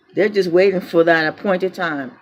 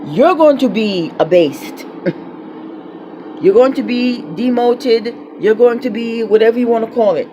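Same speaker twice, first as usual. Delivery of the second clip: louder, pointed threats; defiant warning; 2 semitones higher, 4 dB louder than usual. Real, not acted. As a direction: hammer each going to be. Angry warning to officials.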